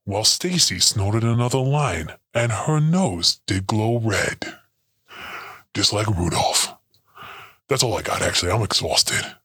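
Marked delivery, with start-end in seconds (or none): 0.0-4.6 story reading. Acted. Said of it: "writing a little Christmas story".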